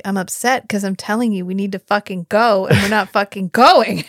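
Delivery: playful imitation of someone losing patience; upset. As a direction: act fed up, punching the swearing. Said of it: "you seem upset".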